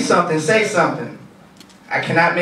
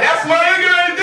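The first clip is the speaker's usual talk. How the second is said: high squeaky voice; 13 semitones higher than usual. Acted. Self-mocking aside in high voice.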